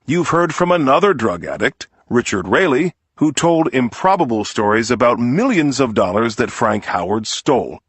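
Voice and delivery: courtroom appeal to the jury, lightly voiced; defense lawyer's plea.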